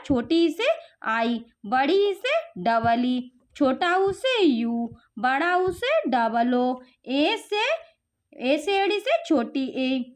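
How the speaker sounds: put-on slow, spelled-out dictation for children; each letter pair said slowly and deliberately; slow teaching drill. Shown as a demonstration. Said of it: "जिससे कि बच्चों को मात्रा का ज्ञान हो सके".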